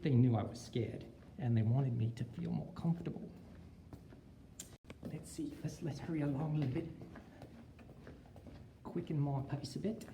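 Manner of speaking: a put-on Australian accent; teacher asking students to rate his Australian accent. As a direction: lay on the Australian twang. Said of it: "How's my accent so far?".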